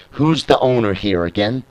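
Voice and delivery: firm, slow, emphatic dismissal; pissed-off owner. Retold or imitated. Owner throwing out the Hardcore Hate Crew, annoyed. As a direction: lay down the law, voicing an irritated boss. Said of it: "the owner's getting pissed off now".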